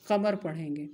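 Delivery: क़मर with the final r made silent; pausal form. Shown as a demonstration. Teacher shows that क़मरी is read as क़मर. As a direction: stop firmly on क़मर. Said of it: "इसको हम साकिन कर देंगे".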